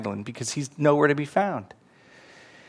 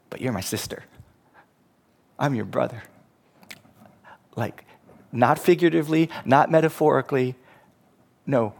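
tender Jesus. Acted. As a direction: speak to her like a loving brother. Jesus imagined speaking to Mary.

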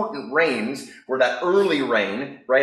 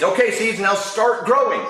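higher, bossy little coaxing; lightly voiced toad giving orders; Toad to seeds; 8 semitones higher, 4 dB louder than usual. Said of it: "he says".

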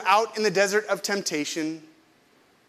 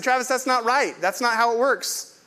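firm disagreement; 5 semitones higher than usual. Retold or imitated. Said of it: "I openly disagreed with him".

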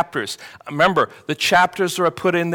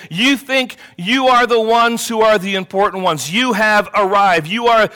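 raised, emphatic sarcastic jab; 3 semitones higher, 3 dB louder than usual. Acted. Preacher as Job mocking self-important friends, sarcastic. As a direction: drive it at them with mocking emphasis on YOU. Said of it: "This is kind of his sarcasm kicking in".

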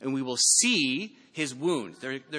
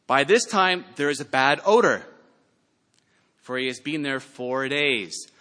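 objection; 7 dB louder than usual. Acted. Martha objects to Jesus.

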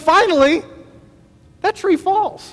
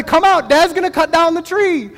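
higher, mildly excited call to the family; imitating a proud dad's announcement; retold calling out; 4 semitones higher than usual. Retelling calling his family outside.

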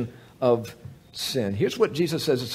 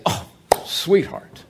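reassuring husband; slower than usual. Retold or imitated. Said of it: "you are going to say".

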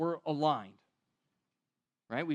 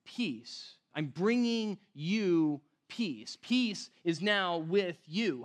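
slow, gentle words of peace; Jesus speaking peace; much slower than usual. Retold or imitated. Preacher voicing Jesus, slow and calm. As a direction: lay the peace on them slowly. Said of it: "Jesus is actually telling them".

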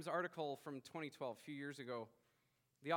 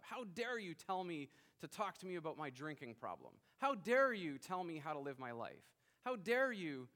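rising, louder indignant protest; hammed-up how-dare-you, building to loud; mock indignation; 5 dB louder than usual. Voicing defiant individualism.

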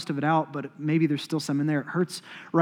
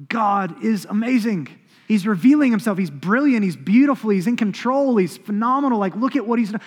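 rising, eager praise that builds louder; excited praise; 4 semitones higher, 3 dB louder than usual. Retold or imitated. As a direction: gush about God like a thrilled believer. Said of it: "Others of us go".

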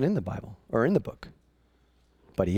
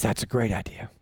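low quiet approval; 6 semitones lower, 6 dB quieter than usual. Acted. King approves the hanging.

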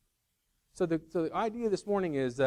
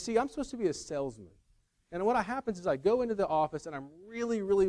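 lightly imitated movie salesman, pitched up; half-hearted comic impression, higher and eager to explain; Chris Farley; 5 semitones higher, faster than usual. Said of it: "not gonna do a good Chris Farley impression".

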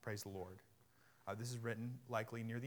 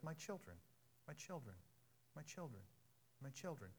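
tender address; 14 dB quieter than usual. Acted. Repeats the apostle's fond address softly.

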